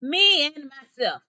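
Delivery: slow, loud, high proud roar; bellowing lion boast. A narrator's reading. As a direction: belt it out like a lion. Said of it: "He roared just once".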